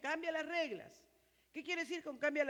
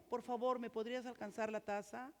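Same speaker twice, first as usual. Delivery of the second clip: polite request; 5 dB quieter than usual. Shown as a demonstration.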